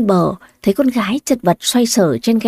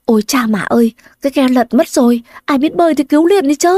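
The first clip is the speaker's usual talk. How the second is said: panicked shouting; 4 semitones higher, faster than usual. Acted. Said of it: "hoảng loạn nhao nhao lên".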